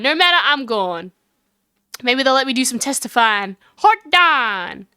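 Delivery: lightly voiced folksy Southern busybody; defiant country witness. Lotta refusing to tell what she saw, defiant country voice. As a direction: refuse them with sassy country pride.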